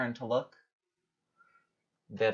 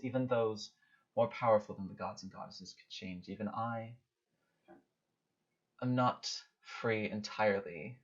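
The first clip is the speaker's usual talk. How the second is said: measured, portentous speech with long pauses; solemn goddess; 4 dB quieter than usual. Acted. Goddess warning a mortal of changes to come, solemn.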